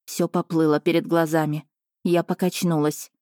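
ordinary delivery, nothing marked

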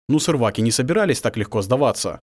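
ordinary delivery

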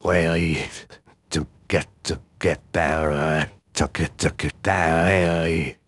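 strained, slow top-of-range squeak; highest voice. Shown as a demonstration. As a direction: push up to your highest voice. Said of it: "the absolute highest voice that I can do".

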